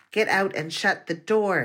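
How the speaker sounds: principal barking at the teacher to get out; shouted. Acted. Principal orders the teacher out, shouting. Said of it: "he shouted at her".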